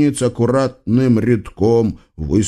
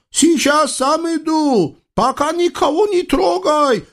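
yelling sultan. Acted. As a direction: shout it across the river. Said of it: "проорал султан Халил". (протяжный высокий крик султана)

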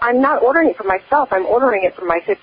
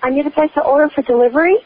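put-on very old faint voice; 4 semitones higher, faster than usual. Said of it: "You sound really too old".

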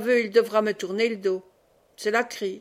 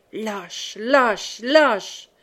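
enraged cry; 3 dB louder, much slower than usual. A narrator's reading. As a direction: hurl the insult three times, each louder. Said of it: "s'écria-t-il par trois fois". (cri de rage qui monte)

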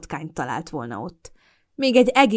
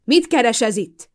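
loud, high, slow angry demand; slow furious question; 5 semitones higher, 6 dB louder, slower than usual. A narrator's reading. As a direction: hurl it at her, slowly. Furious Mason confronting her.

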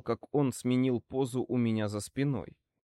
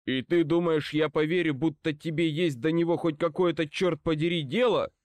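put-on indignant old man, voice raised a little; angry challenge; 4 semitones higher than usual. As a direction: challenge him with heated disbelief. Old man angrily challenges Kincaid. (сердито, с недоверием)

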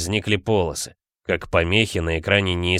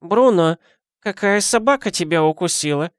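put-on high, creaky-free old granny voice; old woman voice, higher pitch; 10 semitones higher than usual. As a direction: play the nosy old neighbour. Old woman scolds husband.

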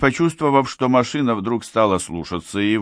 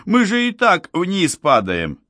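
high-pitched protest in alarm; alarmed, high-voiced objection; panicked protest; 11 semitones higher than usual. A narrator's reading. Panicking pilot argues while falling.

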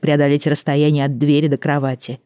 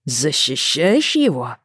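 slow, threatening growl; much slower than usual. Acted. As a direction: growl it at her accusingly. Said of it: "рыкнул муж".

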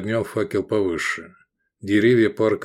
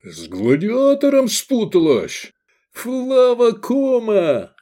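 higher, slow outraged accusation; furious father; 13 semitones higher, 4 dB louder, slower than usual. A narrator's reading. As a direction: spit it at your daughter in disgust.

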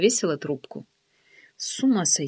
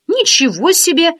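high, louder astonished cry; amazed exclamation; 8 semitones higher, 6 dB louder than usual. Acted. Friend astonished that the birthday was forgotten, exclaiming loudly. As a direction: burst out in surprise. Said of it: "удивилась Оксана".

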